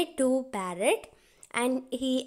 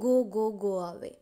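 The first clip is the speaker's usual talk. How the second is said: crow chasing; 4 semitones lower, much faster than usual. A narrator's reading. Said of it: "chasing this parrot Mittu".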